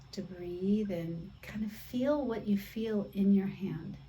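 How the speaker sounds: calm, softened yoga-teacher guidance; guided meditation. Real, not acted. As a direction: ease them into noticing, with long pauses. Leads a mindful hand exercise.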